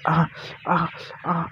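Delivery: short, separated acted cries; narrated cries. A narrator's reading. Narrator imitating the character crying out, short voiced cries. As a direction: imitate repeated cries with gaps between. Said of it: "ती ओरडत होती".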